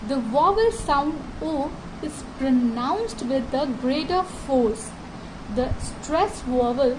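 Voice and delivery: reading each word very slowly and deliberately; slow textbook reading. Shown as a demonstration. Teacher reads the lesson text aloud to students, very slow. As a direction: read it out word by word for the class.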